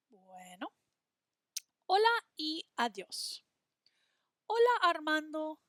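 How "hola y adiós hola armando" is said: higher, louder character greeting; cheerful greeting voice. Acted. Teacher voicing a boy greeting Armando, higher and louder. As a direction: greet like a bright cartoon kid.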